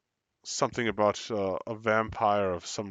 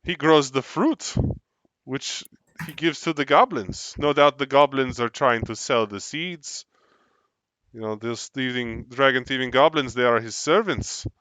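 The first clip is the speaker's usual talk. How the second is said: NPC explaining; 2 semitones higher, 6 dB louder than usual. Acted.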